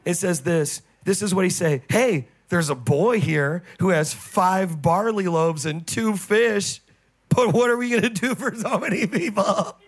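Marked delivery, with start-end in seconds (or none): 1.9-9.8 sarcastic disciple. Retold or imitated. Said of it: "That's literally how he's talking".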